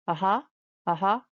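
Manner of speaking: "aha" dipping, then rising; quick "aha" that swings back up; fall-rise tone. Shown as a demonstration. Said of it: "it's a four rise tone".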